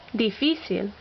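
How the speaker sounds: difícil with FÍ stressed; stress on accented syllable. Shown as a demonstration. Teacher listing words with written accents, stress on accented syllable. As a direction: lean on the middle syllable of difícil. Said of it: "words that need written accents".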